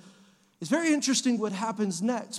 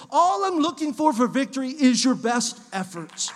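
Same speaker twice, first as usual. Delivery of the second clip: rising, louder preacher's refrain; preaching; 3 dB louder than usual. Acted. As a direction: drive each repeated question home. Preaching build to the congregation.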